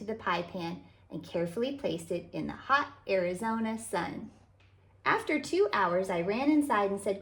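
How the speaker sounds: put-on gentle, lively read-aloud for kids; storybook narration. A narrator's reading. Author reading a picture book to children, animated storytelling. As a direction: read it like storytime for little ones.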